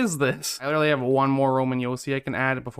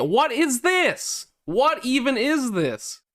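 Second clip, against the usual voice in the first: high, drawn-out cry of disbelief; exasperated outburst; 11 semitones higher, much slower than usual. Real, not acted. Gamer watching his team lose to Chicago, exasperated outburst. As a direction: stretch each word out in high-pitched outrage.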